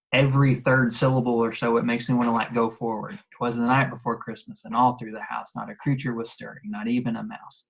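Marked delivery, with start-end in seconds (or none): 3.3-7.7 unforced, let the words flow; natural flowing recitation. Shown as a demonstration. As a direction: read it as it sounds. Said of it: "I'm not even forcing that".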